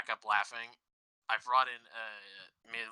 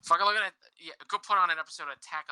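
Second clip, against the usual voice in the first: ranting outburst; 6 semitones higher, 6 dB louder, faster than usual. Real, not acted. Ranting about anime for kids.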